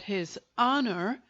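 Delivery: "honor" said with deliberate weight; stress on "honor". A narrator's reading. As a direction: lean on "honor", then pause. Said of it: "he also stressed this word".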